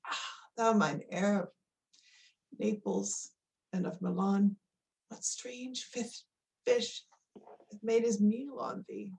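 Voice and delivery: tragic heroine. Acted. King mourns his lost son.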